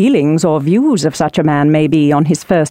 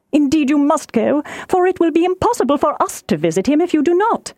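higher-pitched, fretful mother; urgent wifely coaxing, pitched up; excitable wife, pleading; 5 semitones higher than usual. Acted. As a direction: plead the daughters' case insistently. Voices pleading Mrs Bennet.

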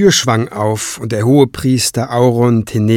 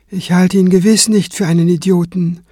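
composed, higher character voice; calm reply; 7 semitones higher than usual. A narrator's reading. Kranz replying to Craven's accusation, calm. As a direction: answer the taunt evenly, unruffled. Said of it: "erwiderte Kranz ruhig".

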